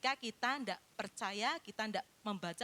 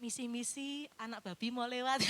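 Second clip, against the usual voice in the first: mock timid rebuke. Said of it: "Andre kalau nengking kan ndak".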